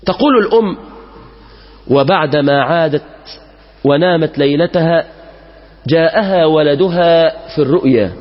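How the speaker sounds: slow, measured classical Arabic storytelling; solemn story narration. A narrator's reading. Preacher telling worshippers an old tale, slow and solemn. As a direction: draw the congregation into the tale.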